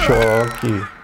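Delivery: sudden short shout of the word; real in-game shout; barked command. Real, not acted. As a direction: yell it as you hit.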